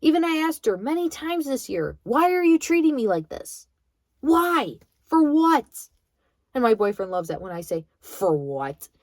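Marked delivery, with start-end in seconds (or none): 2.0-5.9 pleading question. Retold or imitated. Pleading with grandmother. 8.0-8.9 her signature for what. Retold or imitated. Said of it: "the way I say it".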